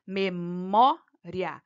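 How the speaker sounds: memória very slow, split with a long MÓ; stressed syllable stretched. Shown as a demonstration. Teacher showing the tonic syllable, memória slowly broken up. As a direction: draw out memória, leaning on the stressed MÓ. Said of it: "a penúltima sílaba tônica".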